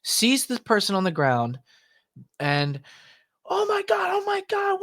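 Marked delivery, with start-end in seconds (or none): 3.4-4.8 very high panicked oh my God; frantic high-pitched shock; shocked gasp. Retold or imitated. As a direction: squeal it out in alarm. Partner finds injured man.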